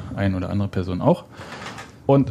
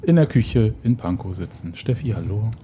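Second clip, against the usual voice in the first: kindergarten teacher voice; slower than usual. Real, not acted. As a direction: greet them like a kindergarten class. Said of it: "wieso klingst du wie eine Kindergärtnerin?". (Kindergärtnerinnen-Stimme)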